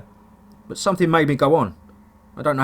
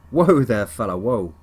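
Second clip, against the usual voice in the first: light Texan twang, calming; Texan accent; slower than usual. Acted. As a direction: soothe him in a Texan drawl. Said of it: "with a twang ... Texan accent".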